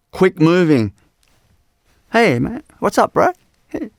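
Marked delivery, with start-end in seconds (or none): 2.1-3.9 high, jumpy mock bro greeting; imitating an erratic hey-bro greeting; hyped bro greeting. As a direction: toss it off like a hyped-up dude. Mocking an erratic energetic greeting.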